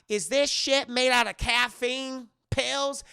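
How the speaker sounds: high, loud, slow disbelief; incredulous question. Retold or imitated. Mary Beth eyeing the table, incredulous question. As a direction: stretch it out loudly in disbelief.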